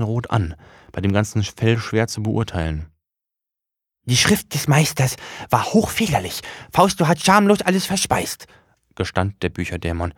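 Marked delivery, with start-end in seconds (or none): 4.0-8.5 high, odd little demon voice; high demon voice, proud of itself; book demon voice. Acted. Demon confesses his misdeed.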